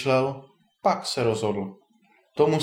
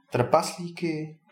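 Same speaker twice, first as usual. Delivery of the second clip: slow, higher echo question; taken aback; 4 semitones higher, much slower than usual. A narrator's reading. Ondřej hears the dragon eats dwarfs, taken aback. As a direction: draw the word out in raised disbelief. Ondřej echoes the alarming news.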